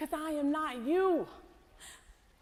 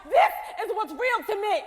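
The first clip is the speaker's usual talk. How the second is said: defiant declaration; 4 semitones higher than usual. Acted. Woman angrily rejects hope.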